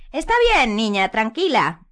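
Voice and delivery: high, slow sugary calm; Umbridge soothing. A narrator's reading. Umbridge calming Hermione, slow and sugary. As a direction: fake comfort.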